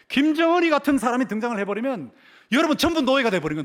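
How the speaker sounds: high, indignant pulpit outcry; full-force preaching. Acted. Preacher railing at mad leaders to the congregation, high and forceful. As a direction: preach with mounting alarm.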